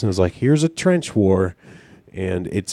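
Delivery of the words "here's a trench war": mock announcement. Game makers announcing mockingly.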